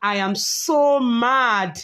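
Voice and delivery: slow, hammed-up mock anger; mock mad. Shown as a demonstration. Teacher reads a practice sentence with mock anger. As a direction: pretend to be mad, slowly. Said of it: "repeat after me".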